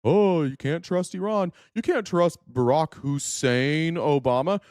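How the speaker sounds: sly, slowed mocking voice in his ear; whisper-like insinuation, lightly voiced; mock Zionist advisers. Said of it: "they're like".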